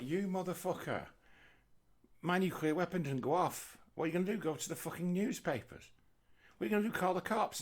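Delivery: high, loud indignant ranting at the seller; ripped-off buyer rant. Retold or imitated. Ripped-off bomb buyer yelling at the scientist, high loud outrage. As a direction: splutter with outrage like a swindled arms buyer.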